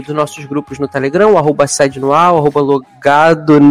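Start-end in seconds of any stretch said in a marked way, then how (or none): 1.3-3.6 tipsy, tripping over the words; slurring a bit after drinks. Real, not acted. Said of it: "hoje eu tô completamente bêbado".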